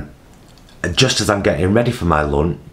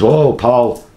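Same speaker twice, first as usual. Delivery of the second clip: raised mock call across a room; retold shout; 7 semitones higher, 4 dB louder than usual. Colleague shouts carer over, retold call. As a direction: imitate a colleague calling out. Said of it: "shouts me over and says".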